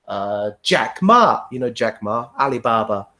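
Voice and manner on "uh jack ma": slow student answer. Retold or imitated. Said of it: "student answering".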